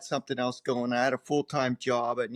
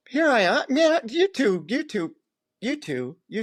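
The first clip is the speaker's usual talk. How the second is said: louder, higher excited burst; 9 semitones higher, 4 dB louder than usual. Real, not acted. Angler telling his story to the host, excited loud burst.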